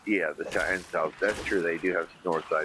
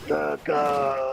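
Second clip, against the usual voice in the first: higher, louder punchy Pesci line; Pesci quote; 7 semitones higher, 4 dB louder than usual. Retold or imitated. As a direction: bark it like Pesci hyping the star. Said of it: "As Pesci said".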